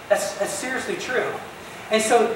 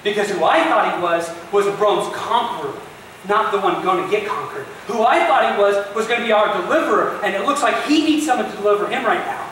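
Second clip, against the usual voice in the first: building frustration. Retold or imitated.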